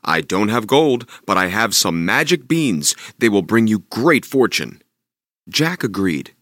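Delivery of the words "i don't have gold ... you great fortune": a lightly voiced tempting stranger; sly bean seller. Stranger tempting Jack to trade, lightly sly. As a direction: coax the boy with a hint of sly charm.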